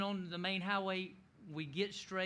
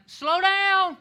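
high, loud yell of "slow down"; panicked yell; 12 semitones higher, 15 dB louder than usual. Retold or imitated. Yelling at wife towing him, panicked high shout. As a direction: shout for dear life from the mower. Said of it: "and I'm like".

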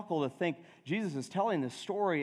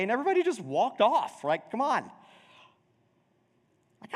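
jealous indignation; 6 semitones higher than usual. Acted. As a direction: play the overlooked sibling, outraged. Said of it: "you're sitting there going".

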